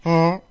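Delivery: short comic toot; mimicked little parp; imitated fart noise. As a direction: voice a brief fart sound. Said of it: "I heard this".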